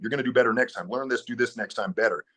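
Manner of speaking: a hint of a supportive coach, upbeat; lightly voiced coach cheering himself on after a mistake; encouraging coach voice. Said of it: "almost like a coach voice".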